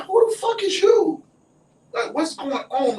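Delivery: very high, loud mock confrontation; outraged disbelief. Friend confronts strangers adoring her friend, loud and indignant.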